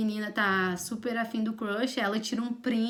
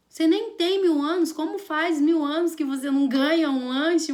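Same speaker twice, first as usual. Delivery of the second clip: mock indignant retort; 4 semitones higher, 4 dB louder than usual. Acted retort to exaggerated complaint.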